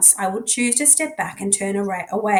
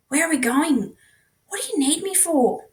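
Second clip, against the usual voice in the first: nervous; 7 semitones higher than usual. Acted. Nervous Charlie questioning Jasper.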